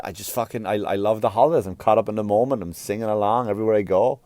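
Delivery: ordinary talk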